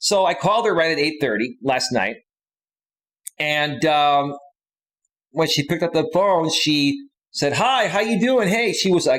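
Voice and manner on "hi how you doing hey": bursting, full of energy, loud, high-pitched. Retelling how a woman answered the phone: imitating her loud, energetic greeting. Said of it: "really loud and energetic".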